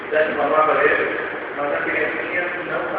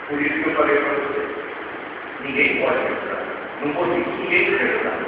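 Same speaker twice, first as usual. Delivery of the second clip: grieving mother; 2 semitones lower, 4 dB quieter than usual. Retold or imitated. Grieving mother tells the missionary her loss, quiet sorrow. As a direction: tell it as someone broken inside. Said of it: "E ela disse assim".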